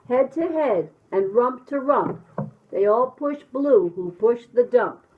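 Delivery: animated, rhythmic picture-book narration; reading to children. A narrator's reading. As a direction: bounce through the rhyme with sound effects.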